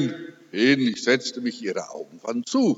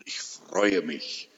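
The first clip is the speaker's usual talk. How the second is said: tender. Retold or imitated. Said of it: "Ich hätte ihr doch sagen sollen".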